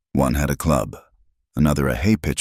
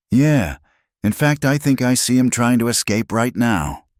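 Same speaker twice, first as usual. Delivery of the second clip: mocking sneer; 7 semitones higher than usual. A narrator's reading. Gunman mocking prisoner.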